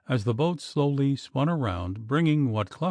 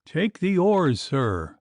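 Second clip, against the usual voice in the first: cried; 5 semitones higher, 4 dB louder, slower than usual. A narrator's reading. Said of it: "cried Clough".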